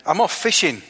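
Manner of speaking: put-on light Barnsley accent as Peter. Preacher voicing Peter for the brother and sister, light Barnsley accent. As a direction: drop into a bit of Barnsley for Peter. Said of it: "Sorry, that was a Barnsley accent".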